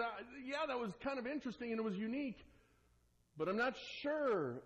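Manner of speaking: a light mock of a wary churchgoer; hesitant doubter. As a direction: brush it off nervously, not committing. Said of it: "they're worried about what they experience".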